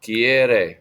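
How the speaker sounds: separated verb drill with pauses; model for repetition. Shown as a demonstration. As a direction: give each form for the class to echo. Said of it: "Repitan, quieres".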